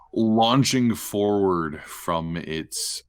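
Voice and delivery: slow, drawn-out scene setting; game master narration. Acted. Game master narrates the monster lunging, slow dramatic narration. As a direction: draw out the attack slowly.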